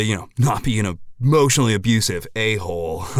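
a hint of a laid-back dude dad; easygoing guy talking about nail polish; lightly voiced interviewee dad. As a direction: play a mellow local father giving a statement. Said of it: "found Mister Longjonovich for a statement".

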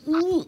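high, soft "ooh" of disgust; grossed-out ooh. Retold or imitated. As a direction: squeal a little ooh at something gross. I was over there gagging myself.

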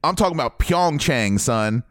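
pumping himself up for the Winter Olympics; hyped up. Real, not acted. To his co-host about the Olympics, hyped and excited. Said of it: "I am hyped for that".

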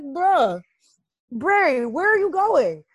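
high, exasperated call; mock-pleading holler; calling after someone. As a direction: call him back in disbelief. Calling after departing character.

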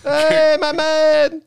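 very high put-on movie voice; high hammed-up character voice; Greg Gory impression. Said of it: "I was going for Greg Gory from Waterworld".

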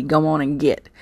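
put-on southern accent. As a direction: quote it with a southern twang. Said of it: "I'm saying it with my southern accent".

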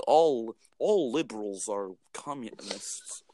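slow mock Russian accent; lightly put-on Russian accent, slowly; dumb-person Russian accent. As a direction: drag it out in a rough attempt at a Russian accent. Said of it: "like, a Russian accent".

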